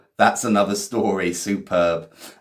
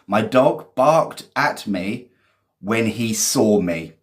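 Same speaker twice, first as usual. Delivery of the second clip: slow reading; slower than usual. Shown as a demonstration. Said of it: "Well done, Lorenzo".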